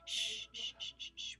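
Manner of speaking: soft unvoiced shushing; whispered shushing. A narrator's reading. Pippi shushing friends near the sleeping bull. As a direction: hush them gently. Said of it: "whispered Pippi".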